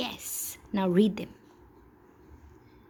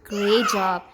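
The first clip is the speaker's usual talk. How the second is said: loud warm praise; 7 dB louder than usual. Real, not acted. Teacher praising her child, loud cheerful praise.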